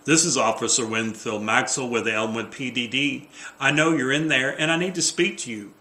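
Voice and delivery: official announcement through a door; identify yourself, then demand attention; lightly voiced, businesslike cop; firm police officer. Script reading as police officer.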